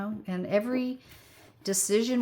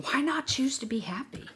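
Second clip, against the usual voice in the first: gentle whispered question; hushed whisper, leaning in; 6 semitones higher than usual. Real, not acted. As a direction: whisper it like a warm secret. Soft punchline of her life advice.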